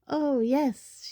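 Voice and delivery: bright-pitched, pleased agreement; happy. A narrator's reading. Luna agreeing to go to the party, happy. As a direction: answer with happy, lifted eagerness. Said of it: "she said happily".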